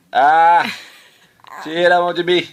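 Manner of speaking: loud protest. Real, not acted. Kid fighting off a hand.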